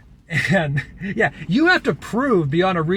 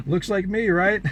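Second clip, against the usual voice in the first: mock friendly; 5 semitones higher than usual. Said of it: "I'm trying to be cordial and friendly".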